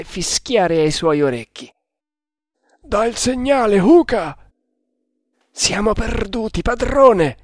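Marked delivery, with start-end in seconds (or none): 2.8-4.4 high order, loudest on the name; shouted command. A narrator's reading. Enemy telling companion to give the signal, shouted command. 5.5-7.4 cry of despair. A narrator's reading. Servant to master under fire, high desperate cry. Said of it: "gridò Kammamuri".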